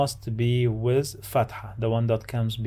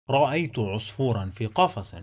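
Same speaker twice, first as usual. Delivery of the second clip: fast, connected sentence reading; quick model reading at natural flow; fluent reading; much faster than usual. Shown as a demonstration. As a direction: run the words together fluently. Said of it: "Let's read the sentence one more time".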